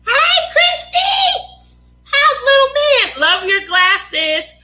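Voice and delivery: high, loud, slow delighted hello; beaming hi to a viewer; excited greeting. Real, not acted. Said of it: "greeting a viewer".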